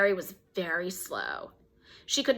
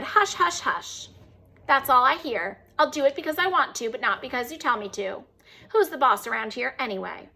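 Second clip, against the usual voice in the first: mocking parrot.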